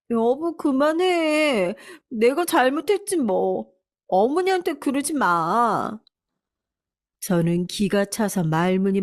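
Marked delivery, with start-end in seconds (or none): 0.1-6.0 higher, slow, pleading; fake-meek wife. Wife stopping her husband, mock tearful and pleading. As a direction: play the tearful victim.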